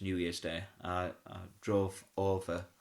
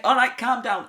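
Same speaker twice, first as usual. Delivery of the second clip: strained calm down; 12 semitones higher, 9 dB louder than usual. Retold or imitated. Soothing a kicking child on shoulders.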